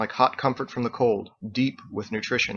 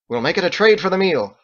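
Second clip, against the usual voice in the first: pleased Fergus; 7 semitones higher, 6 dB louder than usual. A narrator's reading.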